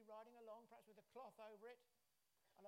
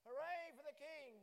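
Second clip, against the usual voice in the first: a big, slow, much louder shout for the king; loud cheer; 5 semitones higher, 11 dB louder, slower than usual. Shown as a demonstration. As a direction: rouse a quiet congregation with a full cheer. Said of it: "Oh, they're quiet this morning".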